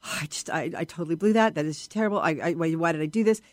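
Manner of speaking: low, lightly acted self-reproach; a touch of beating yourself up, low-pitched; self-critical inner voice. Acting a performer's thoughts after finishing, mildly self-critical. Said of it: "inside your head's going".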